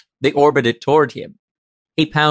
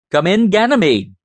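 higher, sharper impatient repeat; 6 semitones higher than usual. A narrator's reading. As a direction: snap the call out, losing patience. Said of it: "Preston repeated impatiently".

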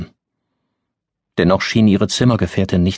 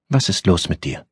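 soft; 2 semitones higher than usual. A narrator's reading. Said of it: "wurde ihre Stimme weich".

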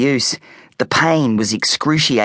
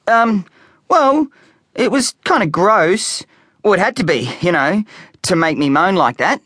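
put-on hesitant boy; 8 semitones higher than usual. A narrator's reading. Boy inventing a story.

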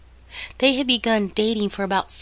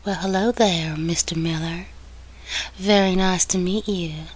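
put-on a light, seductive Southern accent, lower and half-whispered on Mister Miller; sexy Southern accent; 3 semitones lower than usual. Samantha flirting with Nicholas at reception, light sexy Southern accent. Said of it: "spoke in her sexy Southern accent".

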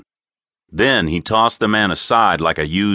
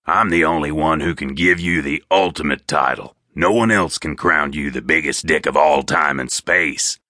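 bargaining captive; 3 semitones lower than usual. Acted. Horn bargains with his captor.

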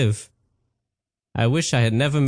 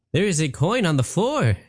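lightly higher genie voice; the genie pointing out a coin; genie Patrick; 5 semitones higher than usual. Acted. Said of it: "Patrick said".

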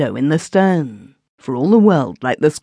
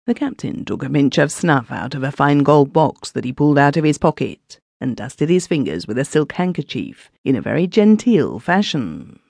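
usual speaking voice

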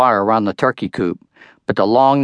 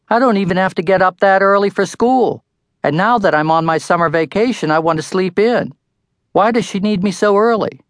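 whiny protest; 9 semitones higher than usual. A narrator's reading. Boy protests early start time.

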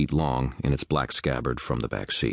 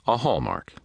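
higher, exasperated echo of "A hallmark"; pitched up, then falling in dismay; sighed; 8 semitones higher than usual. A narrator's reading. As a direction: repeat it with a sighing fall. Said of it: "he sighed".

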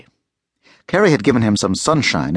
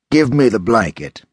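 ordering; 2 semitones higher than usual. Acted. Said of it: "he ordered".

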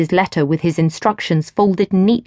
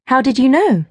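higher, curious; surprised young wife; 6 semitones higher than usual. A narrator's reading. Gwen asks the stranger, a touch surprised. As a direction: ask it, caught out. Gwen's voice in dialogue.

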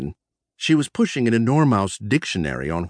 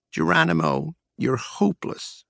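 smirking tease; 5 semitones higher than usual. Acted. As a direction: tease him, amused. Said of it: "she smirked".

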